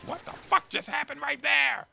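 high, startled outburst; sudden high-pitched shocked cry; stunned disbelief. Retold or imitated. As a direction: react like you can't believe what just happened. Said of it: "I was like".

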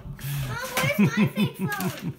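loud, drawn-out call to Mom; yelling across the room. Real, not acted.

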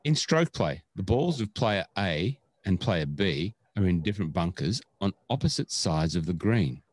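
slow, measured question read-out; radio voice. Real, not acted. Podcast host reads a listener's long rules question, radio voice. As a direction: read it out like a radio quizmaster, deliberately paced. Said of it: "radio voice, read it".

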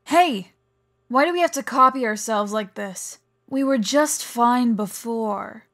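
whiny complaint. Acted. Teammate objecting to being copied, loudly whining. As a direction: complain loudly, dragging the last words.

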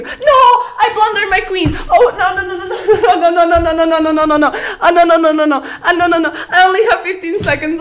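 high, loud panicked laughing no's; real laughing dismay, high and loud. Real, not acted. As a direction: laugh through the disaster. Blundering queen in chess.

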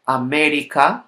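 América with the stress on "mé"; stressed syllable. Shown as a demonstration. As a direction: lean on the "mé" in América. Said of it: "penultimate syllable".

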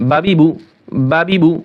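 বাবিবু run together as one quick word; fast drill. Shown as a demonstration. Teacher showing students the fast বাবিবু, quick and joined. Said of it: "আপনারা চাইলে আরও দ্রুত করবেন".

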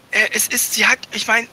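put-on a caught boy fumbling for an excuse; nervous stammering. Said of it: "stammelte er". (stammelnd, höher und hastig)

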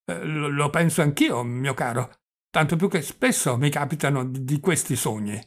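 stammering old man, lightly voiced; hesitant, tripping over small words; doddering old prince. Old prince agreeing it was a dream, mildly doddering.

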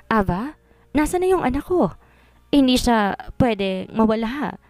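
mild tearful plea, slowing at the end; a touch of crying as she begs; tearful pleading. Acted. Mother begging her friend to find her son, tearful. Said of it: "Tumahan ka muna dyan, wag kang umiyak".

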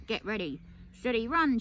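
granny calling the start, mock shout; cried out. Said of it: "she cried".

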